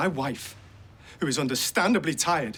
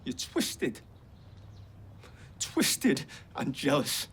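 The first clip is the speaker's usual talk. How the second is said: cold whisper; 6 dB quieter, much slower than usual. Acted. Bitter row between son and mother.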